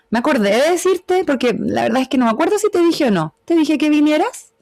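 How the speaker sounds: musing, unsure of whether you said it, rising on "vinieras"; wondering aloud, ending up; questioning tune. Shown as a demonstration.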